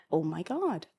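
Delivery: laughing in disbelief at the realisation; half-laughing, half-exclaiming. Retold or imitated. Realising she is the donkey.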